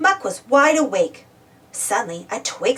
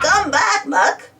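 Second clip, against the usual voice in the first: raised-pitch mild shout; 6 semitones higher, 3 dB louder, slower than usual. A narrator's reading. Spud to Muck zooming away, mild shout. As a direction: call after someone fleeing. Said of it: "Spud shouted".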